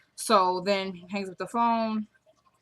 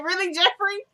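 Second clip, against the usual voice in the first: high, loud incredulous cry; exasperated disbelief; 11 semitones higher, 4 dB louder than usual. Real, not acted. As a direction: shriek his name like you can't believe him. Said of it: "I say".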